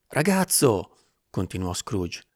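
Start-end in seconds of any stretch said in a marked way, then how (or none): 0.1-1.0 put-on high-pitched call to the boy. A narrator's reading. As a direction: hail a boy down in the street. Scrooge calls down to the boy. (richiamo ad alta voce)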